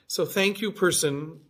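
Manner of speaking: breezy, amused thank you; laughing thanks. Real, not acted. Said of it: "If you happen to see this".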